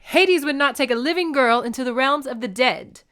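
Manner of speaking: high, loud protest; crying out. A narrator's reading. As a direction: cry out in disbelief. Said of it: "Demeter cried".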